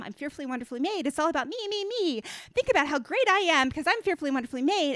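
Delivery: hammed-up smug me me me; mock self-praise. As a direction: parody a vain self-esteem chant. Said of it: "making it about how great I am".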